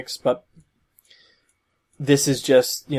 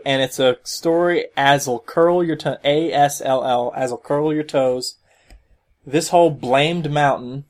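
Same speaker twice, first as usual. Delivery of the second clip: put-on a light Southern hick accent, read from the comic; Southern backwater accent. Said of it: "not because I wanted to do a funny accent".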